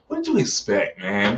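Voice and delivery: exasperated, squeaking upward; exasperated disbelief. Real, not acted. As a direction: throw it at him, voice shooting up.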